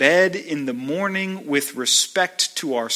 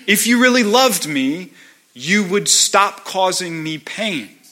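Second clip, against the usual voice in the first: pleading demands, climbing higher and faster; demanding of God; 3 semitones higher than usual. Retold or imitated. A believer bargaining with God, rising insistent pleading. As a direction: push each "if you really loved me" harder and higher. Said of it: "So I think to myself".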